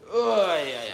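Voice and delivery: high, loud yelp of oi; loud call. Real, not acted. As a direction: shout it out high. Calling out again.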